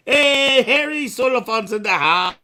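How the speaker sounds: high, loud bubbly greeting; anime girl voice. Acted.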